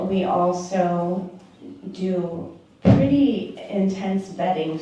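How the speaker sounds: popping p sounds on the mic; mic pops on hard consonants; plosive pops. Real, not acted. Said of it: "sorry about the popping".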